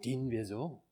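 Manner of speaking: low, whispered, reverent musing; hushed solemnity. Retold or imitated. Preacher recalls a fatherly friend pondering standing before the Lord, hushed solemnity. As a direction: whisper it with long, awed pauses.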